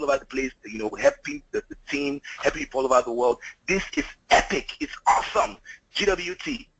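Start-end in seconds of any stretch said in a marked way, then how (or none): 3.7-5.6 excited. Real, not acted. Bursting with excitement.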